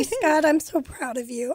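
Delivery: holding back tears; emotional, close to tears; teary. Real, not acted. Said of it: "I'm getting teary".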